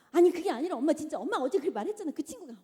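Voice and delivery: put-on loud, fast, pleading kid; a child who won't be cut off; a kid protesting loudly and quickly to mom; insistent child.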